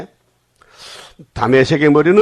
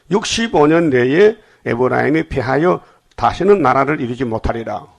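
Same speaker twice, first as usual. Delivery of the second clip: scripture reading. Acted. Reads scripture.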